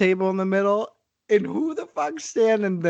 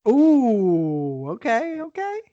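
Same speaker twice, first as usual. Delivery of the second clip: rising okay; 8 semitones higher, slower than usual. Real, not acted. Reacting to the swearing.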